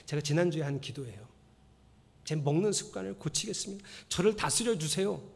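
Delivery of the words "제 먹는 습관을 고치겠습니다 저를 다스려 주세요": quiet earnest prayer. Shown as a demonstration. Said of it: "이렇게 기도하세요".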